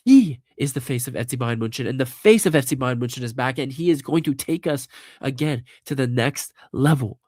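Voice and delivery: stuffy, blocked-nose voice; talking with a blocked nose from a cold. Real, not acted. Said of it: "it's 'cause I can't breathe through my nose right now".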